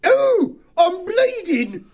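loud, very high wail; panicked scream. A narrator's reading. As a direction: shriek it, dragging out the words. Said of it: "shouts and screams from the shrews".

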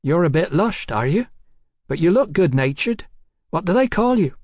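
high-voiced cheeky London girl. A narrator's reading. Hetty in story dialogue.

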